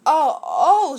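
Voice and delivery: mock nervous elephant; hammed-up worried oh oh; shivering. A narrator's reading. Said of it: "shivered Horton".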